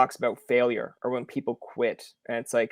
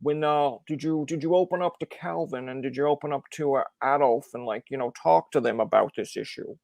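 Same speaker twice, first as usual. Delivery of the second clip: lightly put-on, bad talk-show doctor accent; Doctor Phil accent. Host questioning bandmate about opening up, bad Doctor Phil accent. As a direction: attempt a therapist's accent, badly and half-heartedly. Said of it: "put on my Doctor Phil hat and maybe the worst accent ever".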